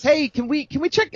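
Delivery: high-pitched, eager call to someone upstairs. Retold or imitated. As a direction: call up to a third-floor window, pitched high. Buddy calls up to third floor.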